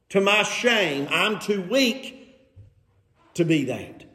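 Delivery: slow mock confession; drawn-out sarcastic humility. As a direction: feign shame at being weak. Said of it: "you hear this sarcasm, don't you?".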